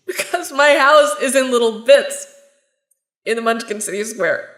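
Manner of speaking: teary, half-laughing rant; a tearful laugh while pouring it all out; laughing through tears. Acted. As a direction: cry and laugh at once, overwhelmed. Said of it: "I'm crying".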